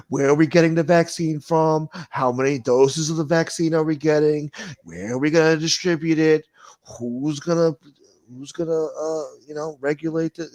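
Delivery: loud, high, pompous mock of the governor asking; mock questioning governor. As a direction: ham up the governor reeling off questions. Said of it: "he's just asking hypothetical questions".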